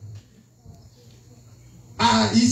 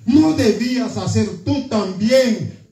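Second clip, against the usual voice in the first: angry lord. Acted. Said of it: "dice el Señor enojado". (señor enojado reprendiendo al siervo, lento y severo)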